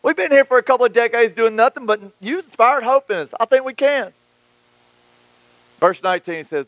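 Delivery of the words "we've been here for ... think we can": much higher, hyped-up eager voices; excited crowd. Retold or imitated. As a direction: pump it up like a cheering crew. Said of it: "So everybody's like".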